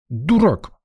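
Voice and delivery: high angry snap; girl still angry at him; angry retort. Acted. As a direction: fling the word at him. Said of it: "девчонка продолжала сердиться".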